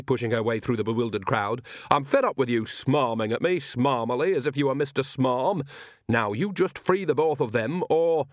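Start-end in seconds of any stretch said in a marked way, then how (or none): 1.9-8.3 lightly voiced indignant witch; scolding Nanny. Nanny demands the Count free the captives, scolding. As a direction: tell him off with mild exasperation.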